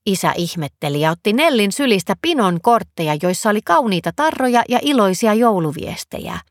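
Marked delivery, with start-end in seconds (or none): none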